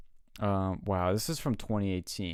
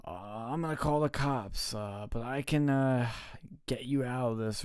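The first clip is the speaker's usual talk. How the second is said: higher-pitched retold telling-off, no real shout; mock yelling tow trucker; 3 semitones higher than usual. Tow truck guy threatening stranded women with cops, mild mock yell. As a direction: lightly imitate a man yelling at stranded drivers. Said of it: "yelling at them".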